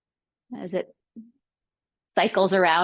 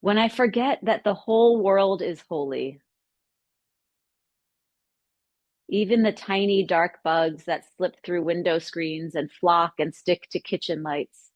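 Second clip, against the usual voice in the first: measured recitation with long pauses between lines; poem reading. Acted. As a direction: read the poem as a contemplative offering. Reads a poem aloud.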